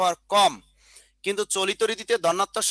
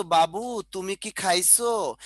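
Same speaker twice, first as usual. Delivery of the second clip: sweetly, lovingly; slower than usual. Retold or imitated. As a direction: coo it to a loved one, slowly. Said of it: "এত সুন্দর করে বলি, মানে, একেবারে রস দিয়ে বলি".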